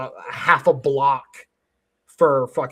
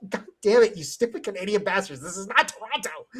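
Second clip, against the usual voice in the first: higher, hammed-up scolding; mock exasperation; 4 semitones higher than usual. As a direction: scold them in mock outrage, close to laughing. Acts out scolding the stubborn tourists.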